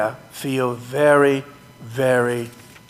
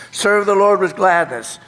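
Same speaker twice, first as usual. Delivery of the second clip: demo congregation part; 4 semitones higher than usual. Shown as a demonstration. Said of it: "start with".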